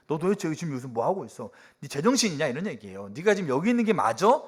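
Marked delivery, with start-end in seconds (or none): 0.1-2.5 incredulous rebuke. Acted. God rebuking Elijah voiced. 3.1-4.4 loud challenge. Acted. God questioning Elijah voiced.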